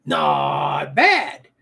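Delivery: "Not bad" said with a light Canadian accent; a quick Canadian take on "Not bad", not overdone. Shown as a demonstration. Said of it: "I can say it in Canadian".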